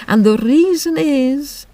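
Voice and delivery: slow, weary turtle voice; Mock Turtle. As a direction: drag the words out sleepily.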